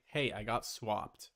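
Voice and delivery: low, slow offhand claim; lightly acted casual excuse. Shown as a demonstration. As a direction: toss it off like it's nothing. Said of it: "just say".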